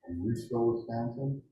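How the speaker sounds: muffled by a mask. Real, not acted. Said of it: "I suppose this mask is muffled".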